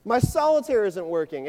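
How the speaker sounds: high, loud mock panic; hammed-up shrill grandma freaking out. Grandson mimics grandma whose card game failed, shrill. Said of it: "I hear this shrill of a voice".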